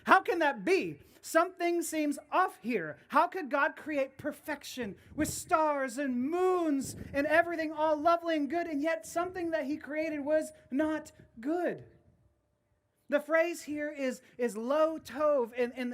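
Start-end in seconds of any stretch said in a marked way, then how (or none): 0.0-11.8 bewildered reader. Retold or imitated. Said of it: "you're going".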